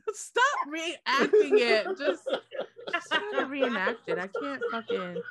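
words squeezed through laughter; barely holding it together; laughing while talking. Real, not acted.

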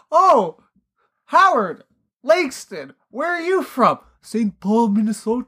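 high, halting mock-Austrian dialogue; mock Austrian accent. Imagining Howard asked where he's from, mock Austrian accent. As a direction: act out both halves in a joke Austrian accent. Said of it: "it's the same thing here".

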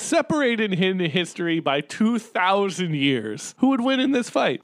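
milk the promo line; dramatic announcer echo. Retold or imitated. Echoing the promo.

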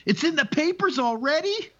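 very high, stunned question; shocked disbelief. Acted. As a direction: squeak it out in disbelief. Lion shocked in joke punchline.

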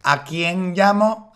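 slow puzzled mock madrileña. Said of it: "Y me dice".

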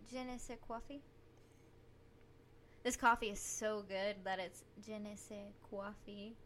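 New York vowel on coffee; New York accent. Pretend. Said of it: "you sound like you're from New York".

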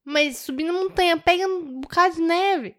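put-on high-pitched Mineiro accent; mock mineiro. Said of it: "falando igual mineiro". (sotaque mineiro imitado, mais agudo)

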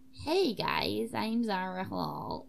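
slow, drawn-out introduction at an ordinary pitch; trial character voice. Shown as a demonstration. Player trying out how an invented student talks, slow drawl. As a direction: try out a slow character greeting. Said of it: "Maybe she's like".

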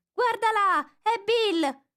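high, loud crowd cry; excited chorus. Acted. Crowd of animals spotting Bill fly out, loud. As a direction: shout it out as a startled crowd. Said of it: "un coro generale di".

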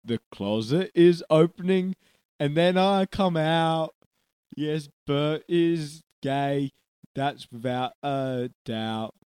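slow, loud, chanting character voice; drawn-out silly chimney-sweep; Bert. Acted. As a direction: stretch each word out hammily. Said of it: "My name is Bert".

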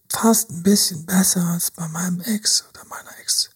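breathless whisper of delight; whispered excited inner thought. Retold or imitated. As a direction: hush it like a secret thrill. Imagined excited date thought.

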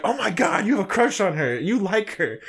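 high-pitched imitation of excited gossip; mock a friend's thrilled discovery; giddy, high retold tease; gleeful teasing. Imitates Val discovering the crush.

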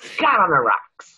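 drawn-out mock American accent; imitated American accent. Guest teasing host about how she says the title, mock American accent. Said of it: "I love how you say it".

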